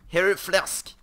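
loud, high yell; real frantic call; frantic shout. Real, not acted. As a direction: shout it out in a panic. Offering pork to the creeper.

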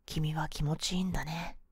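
soft whisper. Acted. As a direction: whisper it close. Whispered suggestion.

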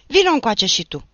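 loud summoning call. Acted. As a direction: call him over, threatening. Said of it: "îl chemă și pândarul pe Achim". (chemare strigată)

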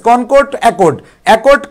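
each word drawn out very slowly for the class; slow drill. Shown as a demonstration. Teacher drilling online students on vocabulary, very slow. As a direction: spell out কনকর্ড, accord slowly so students can repeat. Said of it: "আমরা কিছু word মুখস্থ করে ফেললাম".

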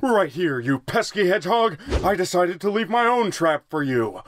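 hammy evil-villain monologue; slow theatrical villain menace. Acted. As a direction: gloat like a cartoon villain. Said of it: "my evil monologue".

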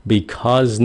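because with a voiced buzzing z ending; Z sound. Shown as a demonstration. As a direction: end "because" on a clear Z. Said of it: "nếu các bạn nói chậm nó là âm Z".

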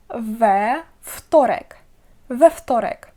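"ве вторек" with an added e after the v; teacher's clear model of "ве вторек", v-e then f-torek; full "ве" before вторек. Shown as a demonstration. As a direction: say "ве" as its own syllable, then "ftorek". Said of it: "тому ми додаємо не «в»".

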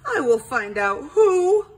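high, loud dramatic declaration; proclaimed vow. A narrator's reading. Detective vowing to find the culprit, proclaiming. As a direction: declare it loudly, rising high on the end.

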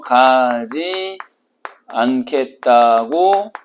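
가지 않겠다고 stretched very slowly, syllable by syllable; drawn-out stress. Shown as a demonstration. Teacher stretching 가지 않겠다고 slowly for students. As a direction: drag out 가지 않겠다고 to make it stick. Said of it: "가지 않겠다고 버팅기는 거죠".

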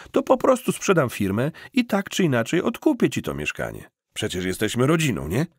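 smooth salesman who won't hear no; insistent reassuring cousin. Acted.

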